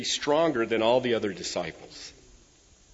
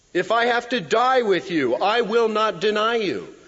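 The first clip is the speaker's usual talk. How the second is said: raised, higher, insistent oath; Peter's vehement protest, pitched up and forceful; vehement vow; 7 semitones higher, 4 dB louder than usual. Retold or imitated. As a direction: swear it with passion. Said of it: "he spoke more vehemently".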